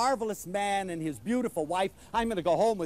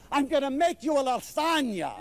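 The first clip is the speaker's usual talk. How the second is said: eager hostess; 7 semitones higher than usual. Retold or imitated. Wife eager to feed guest.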